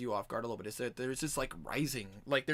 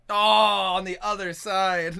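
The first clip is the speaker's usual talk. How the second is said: loud, slow, drawn out; excited; 6 semitones higher, 14 dB louder, slower than usual. Real, not acted. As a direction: stretch it out in delight.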